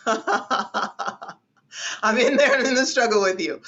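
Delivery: laughing through the words. Real, not acted. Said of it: "laughing at own struggle".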